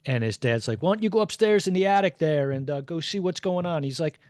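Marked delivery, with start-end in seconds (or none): 0.8-3.8 put-on North Jersey accent. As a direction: call upstairs like a North Jersey dad. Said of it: "with a very thick North Jersey accent".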